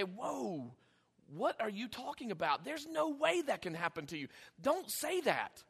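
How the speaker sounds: soft, concerned protest; mild, loving rebuke; lovingly friendly. Acted. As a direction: gently take a friend aside to object. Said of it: "It's a lovingly friendly".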